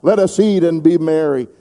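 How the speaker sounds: preacher prompting a response; call and response. Shown as a demonstration. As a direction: lead the church in saying it back. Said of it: "Everybody say".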